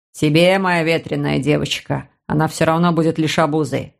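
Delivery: low, patronising voice; condescending man. Acted. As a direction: talk down to her, low. Uncle lecturing sister.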